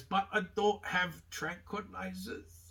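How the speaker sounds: high, put-on voice of a shady foreign vet; over-the-top vet voice. Vet telling Lionel he has no tranquilizers, in a high hammed-up voice. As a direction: ham up the sinister vet's excuse. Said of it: "over-the-top kind of suggesting maybe he was a Nazi".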